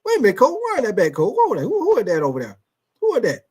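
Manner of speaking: imitating a coach yelling at the tape, pointing out the player; mock coach calling out. Coach in film session calling out the player, mock shouting.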